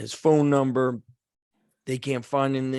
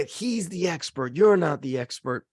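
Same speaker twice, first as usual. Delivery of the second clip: emphatic, raised mock scolding; scolding grandfather; 4 semitones higher, 3 dB louder than usual. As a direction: imitate a grandfather putting a boy in his place. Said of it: "my grandfather's like".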